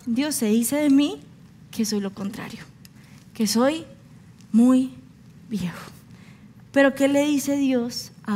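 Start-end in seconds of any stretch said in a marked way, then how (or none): 0.0-4.9 fading to a near whisper on viejo; Abraham's lament to God. Retold or imitated. Preacher voicing old Abraham complaining to God, fading to a whisper. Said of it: "¿Y qué decía Abraham?". 5.5-5.9 whispered. Retold or imitated. Preacher voicing Abraham complaining to God, whispered ending.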